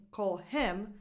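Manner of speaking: "him" emphasized with its H kept; stress on HIM. Shown as a demonstration. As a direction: lean on HIM, as opposed to someone else. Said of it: "need to emphasize him".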